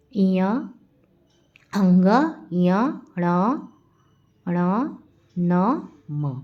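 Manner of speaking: each nasal letter said slowly, one at a time, with pauses; slow drilled nasal letters. Shown as a demonstration. Teacher drilling the class on the nasal letters, slow and clear. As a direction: sound out इय, अंग, ण, न, म clearly for the class. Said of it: "तो पंचम वर्ण में कौन कौन से वर्ण हैं".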